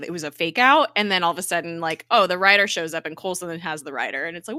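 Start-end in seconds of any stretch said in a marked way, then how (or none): none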